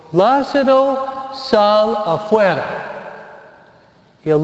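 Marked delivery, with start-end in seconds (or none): 0.1-2.6 agudo y lento, llamando a Lázaro; llamada en voz alta. A narrator's reading. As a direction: alarga "Lázaro" y llama hacia la tumba. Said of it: "Jesús en voz alta dijo". (Jesús llama a Lázaro desde la tumba, voz alta y lenta)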